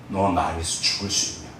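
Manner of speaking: low, hushed, solemn asking; lightly voiced divine question; God's quiet question. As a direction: ask gravely, low and soft.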